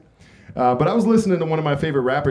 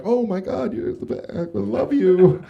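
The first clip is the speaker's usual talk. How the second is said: mock gushing girl; 8 semitones higher than usual. Girl gushing in imagined scene.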